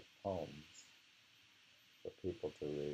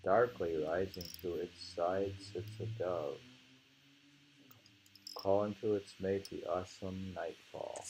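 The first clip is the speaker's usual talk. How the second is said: slow, measured poem reading; poem recitation. Acted. Teacher reciting a poem to the class, measured and slow. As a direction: savour each image as you recite.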